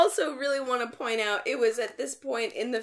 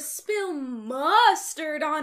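mock outraged woman; 7 semitones higher, 6 dB louder, slower than usual. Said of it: "This woman is like".

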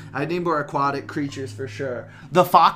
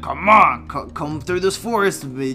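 clown voice. Retold or imitated. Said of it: "a clown version of yourself shouting at you".

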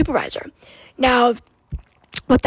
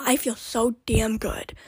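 whispered aside; 5 dB quieter, slower than usual. Real, not acted.

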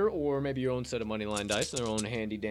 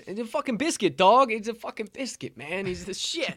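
higher pitched, gushing hype about the dog; retold hyped rave; 10 semitones higher, 4 dB louder than usual. Host imitating himself raving about Biscuit to a friend, mock excitement. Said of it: "I was like".

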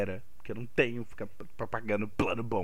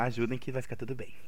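mustache twirling villain; 5 dB quieter than usual. Acted. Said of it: "A risada maléfica".

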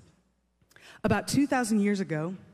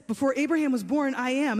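higher-pitched recap; 4 semitones higher than usual. Retold or imitated. Recap of answer before overreaction.

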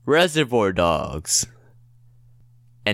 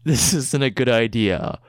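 movie trailer voice. Acted. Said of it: "in a movie trailer voice".

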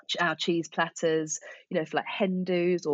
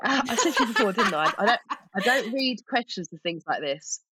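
laughing; 5 semitones higher than usual. Real, not acted. Laughing at unread questions.

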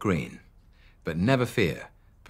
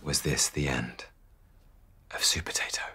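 low dramatic falling question fading to a whisper; solemn low suspense; ominous question; 4 semitones lower than usual. A narrator's reading. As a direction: ask it like a cliffhanger. Cliffhanger question.

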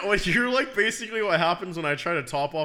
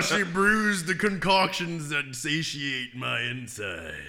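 mock mystical; 2 semitones lower, 4 dB quieter, slower than usual.

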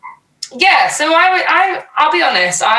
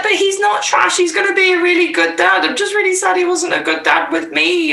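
imitating the girl; 10 semitones higher than usual. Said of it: "she was just like".

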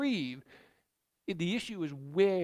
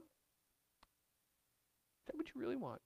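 very soft, slow, drawn-out question; slow gentle God voice; 6 semitones higher, 12 dB quieter, much slower than usual. Acted. God asks Brian again, slow and hushed. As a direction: stretch each word, hushed and searching. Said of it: "wait for his answer".

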